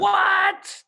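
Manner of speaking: high startled what; shocked what. Real, not acted. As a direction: react in disbelief. Shocked by sleeping mask.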